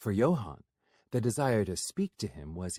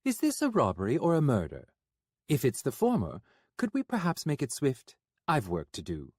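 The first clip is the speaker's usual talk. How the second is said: higher, quick, nervous gentleman; rattled but polite; nervous Florian; 4 semitones higher, faster than usual. Acted.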